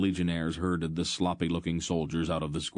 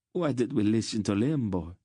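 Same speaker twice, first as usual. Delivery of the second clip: wailing; 5 semitones higher than usual. A narrator's reading. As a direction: cry it out to the sky. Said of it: "the first merchant wailed".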